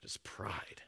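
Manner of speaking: soft whispered verdict; hushed final verdict. Real, not acted. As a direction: breathe the words out with no voice.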